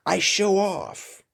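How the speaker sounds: breathy whisper, slow and secret; whispered confession. Real, not acted. A man admitting he shows off, in a slow whisper. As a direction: let it slip out like a secret. Confessing his habit of showing off.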